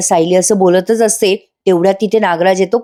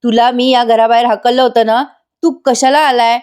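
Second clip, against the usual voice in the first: angry yelling; 4 semitones higher than usual. Retold or imitated. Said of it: "Prataprao ओरडतात खूप".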